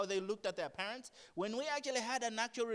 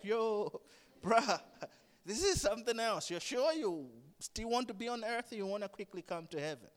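casual Jesus; 2 semitones higher than usual. Retold or imitated. Jesus voiced as casual friend.

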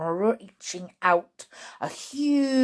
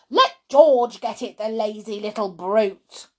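loud opening, quickly easing off; mildly shouted grumble from a grandma; shouting grandma; 6 dB louder than usual. Acted. Grandma shouts that George should fetch it, scornful. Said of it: "Grandma shouted".

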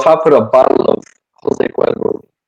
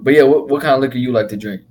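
normal talking voice

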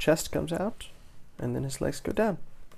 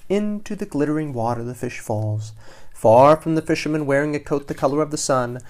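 story narration; 5 dB louder than usual. A narrator's reading. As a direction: let the phrases ripple along, easing down. Reads picture book to children.

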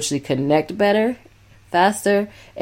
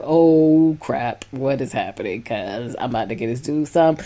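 worried alarm; 3 semitones lower, 3 dB quieter than usual. Shown as a demonstration. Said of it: "I was saying it like".

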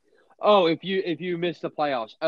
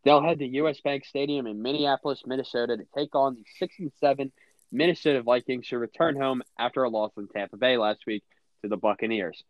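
announcer read. Acted. Reads game preview like announcer.

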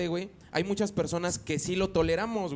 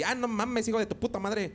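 put-on northern accent; 7 semitones higher than usual. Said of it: "alguien del norte".

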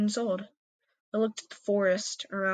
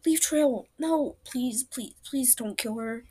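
higher, mild frantic begging; desperate plea; 4 semitones higher, slower than usual. Acted. Apprentice mildly pleading in thought for her mentor. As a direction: plead quickly, fading at the end. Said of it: "I thought".

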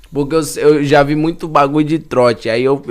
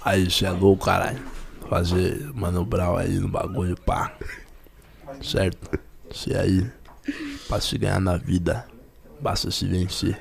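Rapper impression; 7 semitones lower, 10 dB quieter than usual.

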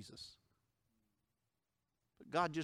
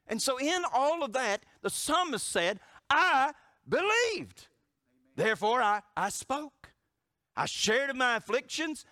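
fiery preaching; 9 semitones higher, 7 dB louder than usual. Acted. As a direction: build to the climax, preach it. Preaching climax.

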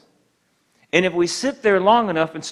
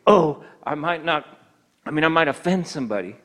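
weak timid man. Retold or imitated. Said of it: "Not weak men who are afraid".

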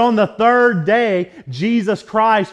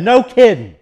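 loud, higher mock shout in a neighbor's voice; shouted reply; 4 semitones higher, 6 dB louder than usual. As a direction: bellow it back in disbelief.

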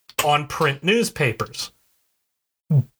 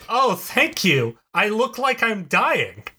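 higher, drawn-out mock thanks; mock gratitude; 5 semitones higher, slower than usual. Podcaster imagining someone thanking a student for an insult, mock gratitude. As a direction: gush slowly with sarcastic gratitude. Acting out an implausibly grateful reply.

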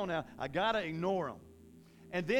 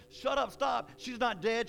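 raised, insistent voice; commanding rebuke; 4 semitones higher than usual. Acted. Acting Jesus answering the laughing mourners, raised firm rebuke. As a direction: cut off the mockers firmly. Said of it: "Jesus like".

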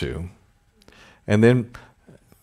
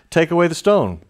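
commanding Jesus; 9 semitones higher, 4 dB louder than usual. Acted.

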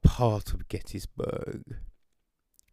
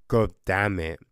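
lower, impressed, savouring it; awed retold reaction; 3 semitones lower than usual. Reviewer retelling his impressed reaction, low awed curse. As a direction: say it like something was dope. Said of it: "So you're like".

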